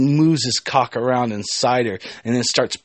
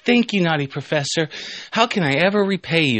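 a higher, lightly acted thank-you; lightly voiced grateful student; 6 semitones higher than usual. Student asks how to repay, lightly acted gratitude. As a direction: lift the voice for a grateful character. Cat girl thanks the professor.

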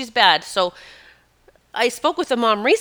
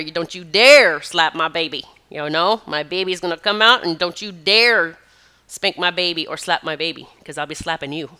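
mock warning to doctor; 3 semitones lower than usual. Warning the doctor, acted quote.

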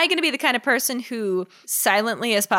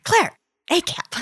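high pleading whine; 9 semitones higher, slower than usual. Acted. Pleading on phone.

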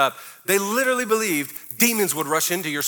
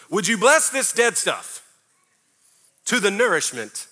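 hammed-up pious plea, slow and drawn out; mocking mealtime prayer. Pastor mocking people who bless food, hammed-up piety. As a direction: parody a fussy grace over dinner. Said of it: "how stupid this is".

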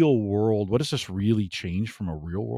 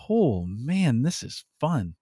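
higher-pitched, mildly excited quote; imitated delight; 4 semitones higher, slower than usual. Voicing workers having a good time, mildly excited. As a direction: lightly act out someone thrilled by the work. Voicing people enjoying their work.

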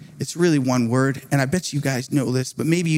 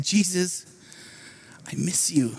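soft, nearly whispered confession; sad longing; 7 dB quieter than usual. Retold or imitated. Preacher recalls praying on his couch, sad and hushed. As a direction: retell a private sad prayer, voice dropping away. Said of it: "saddest moment in my faith".

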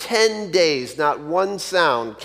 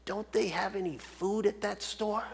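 much softer dying-parrot murmur; very faint; 3 semitones higher, 13 dB quieter than usual. Retold or imitated. Dying parrot's last complaint to its owner, very faint. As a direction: let it fade like a last breath. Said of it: "it said very faintly".

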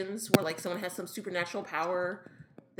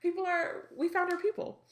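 delighted; 10 semitones higher than usual. Retold or imitated. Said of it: "it's just really like".

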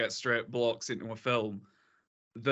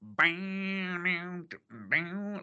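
imitated beat; 5 semitones higher than usual. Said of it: "when it goes into it".

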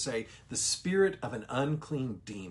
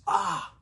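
a sharp, higher demon's ah, louder; exclamation ah; 7 semitones higher, 5 dB louder than usual. Shown as a demonstration. Teacher voicing the demon's sharp cry, louder. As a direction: blurt out the cry. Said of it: "A H exclamation point".

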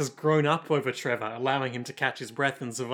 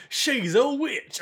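much higher, slow accusing squeal; mock mob cry; 10 semitones higher, much slower than usual. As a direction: howl it like a Monty Python peasant. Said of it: "They're all like".

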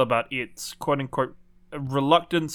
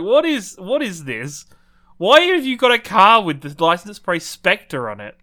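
incredulous; 3 semitones higher, 5 dB louder than usual. Retold or imitated. Mocking disbelief quote.

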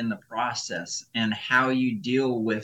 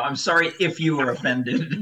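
fake apology; 4 semitones higher, 5 dB louder than usual.

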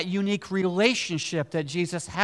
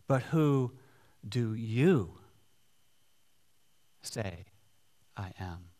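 low, hushed question with long pauses; slow, deliberate question; 7 semitones lower, 5 dB quieter, slower than usual. Retold or imitated. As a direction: ask it slowly, falling away to very quiet. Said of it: "he said to them".

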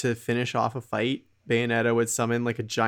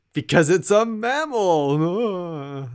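slow, high, drawn-out voice; deadpan mock answer; 6 semitones higher, much slower than usual. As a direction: drag it out slowly like it's obvious. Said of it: "It's like".

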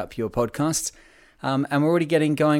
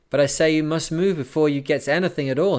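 insisting; 4 semitones higher, 3 dB louder than usual. Acted. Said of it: "he insisted".

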